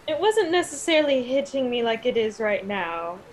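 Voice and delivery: talking through a mouthful; words round a bite of hash browns; mouth full. Real, not acted. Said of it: "through a mouthful of hash browns".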